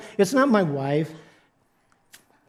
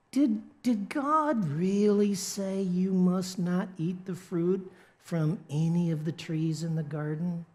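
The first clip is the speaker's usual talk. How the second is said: put-on devil's North Carolina accent; 7 dB quieter than usual. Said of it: "the devil speaks with a North Carolina accent".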